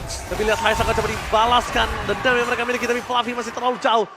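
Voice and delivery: rising excited play-by-play; esports caster. Real, not acted. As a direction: build the call as it happens. Live play-by-play.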